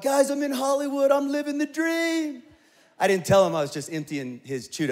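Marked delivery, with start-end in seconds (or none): 0.0-2.4 high, gushing brag to friends back home; mock-proud texting friends back home; boasting to friends. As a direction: sell the Hollywood dream, much higher. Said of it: "and I'm like".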